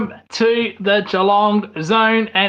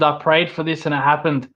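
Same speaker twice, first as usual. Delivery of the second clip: put-on terrible Scottish accent. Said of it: "That's a terrible Scottish accent, trying to copy Drew McIntyre there".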